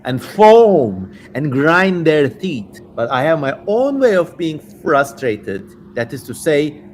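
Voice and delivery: lightly voiced sinister demon. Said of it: "I'm just getting into character now".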